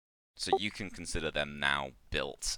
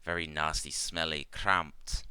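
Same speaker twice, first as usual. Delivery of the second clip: halting broken English, sinking into mild sadness; Ikmar remembering; 3 semitones higher, 5 dB louder than usual. Acted. Ikmar telling the party about old nests, mildly sad. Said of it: "she kinda, like, nods and goes".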